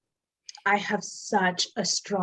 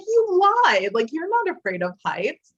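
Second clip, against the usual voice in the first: put-on accusing boyfriend; 9 semitones higher, 6 dB louder than usual. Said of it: "he was like".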